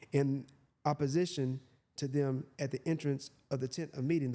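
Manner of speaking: measured Bible reading voice; scripture reading. Acted. Preacher reads the verse to listeners, measured. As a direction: read it out as holy text.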